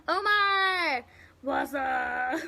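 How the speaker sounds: greeting a viewer by calling his name. Real, not acted. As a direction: call his name out with delight. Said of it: "That's just me say his name".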